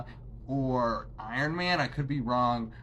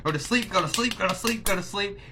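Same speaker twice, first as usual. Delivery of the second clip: put-on higher sing-song coaxing, like soothing a child; coaxing go to sleep; 6 semitones higher, faster than usual. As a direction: lull the Hulk in a raised singsong. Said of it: "And he's like".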